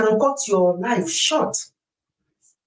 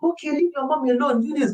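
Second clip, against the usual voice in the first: higher-pitched mock dad telling the children off; imitated daddy; 8 semitones higher than usual. Wife voices the dad she expects to defend her, imitated daddy. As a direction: put on a raised voice for an imagined dad. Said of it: "you should expect daddy to say".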